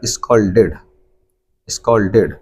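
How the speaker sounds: स्कॉल्डेड said "scolded", the ed as "id"; pronunciation demo. Shown as a demonstration. Teacher reminding class of rule one, स्कॉल्डेड. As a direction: say स्कॉल्डेड with a full id syllable. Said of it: "इसको आपने क्या पढ़ा था".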